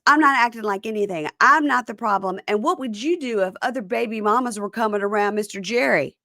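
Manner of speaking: defensive retort. Retold or imitated. Retells Joella arguing back.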